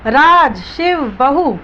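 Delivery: mother summoning her sons, a lightly voiced shout; calling out loudly. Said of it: "जोर-जोर से चिल्लाने लगी".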